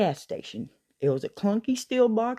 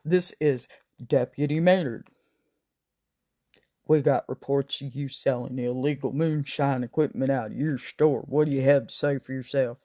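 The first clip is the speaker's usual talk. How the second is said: serious deputy tone; 3 semitones lower than usual. Retold or imitated. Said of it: "in her best serious tone".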